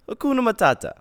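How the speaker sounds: breezy high mock driver voice. Driver shrugging off raised fare.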